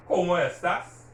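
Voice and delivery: "¿Cómo estás?" with stress on CÓ and TÁS. Shown as a demonstration. Teacher modelling a greeting, stressed O in Cómo and A in estás. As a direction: punch the accented vowels in "¿Cómo estás?". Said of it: "you hear me stressing the O".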